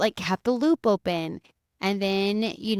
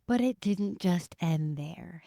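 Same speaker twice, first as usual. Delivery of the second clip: dramatic teaser; slower than usual. Real, not acted. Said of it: "hi from the future".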